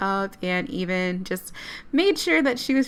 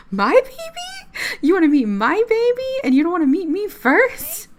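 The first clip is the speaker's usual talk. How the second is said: put-on high-pitched, loud mom squealing over her baby; gushing mock mom; 10 semitones higher, 5 dB louder than usual. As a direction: put on an incredulous, over-the-top mother voice. Imagining mom's reaction to news.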